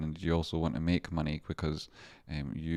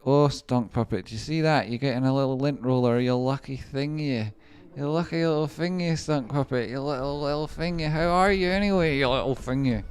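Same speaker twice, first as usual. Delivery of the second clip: put-on high cooing baby talk to a pet; 8 semitones higher than usual. Streamer cooing to a viewer's pet over a lint roller, high baby talk. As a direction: coo at the little thing like a puppy.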